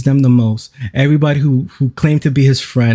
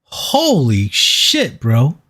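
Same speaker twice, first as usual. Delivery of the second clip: slow, drawn-out amazement; amazed; much slower than usual. Real, not acted. Streamer stunned by Andrew's rant, slow and drawn out. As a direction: stretch it out in disbelief.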